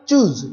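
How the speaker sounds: "choose" said clearly on its own; pronunciation demo. Shown as a demonstration. Teacher showing the class how choose is pronounced, pronunciation demo. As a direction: set out "choose" as a model word. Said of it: "this is pronounced as choose".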